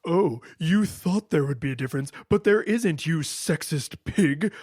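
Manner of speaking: imagined designers' taunt, lightly hammed-up; playful mock reproach; mock gotcha. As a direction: scold the player in mock accusation, drawing out the insult at the end. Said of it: "trying to be like".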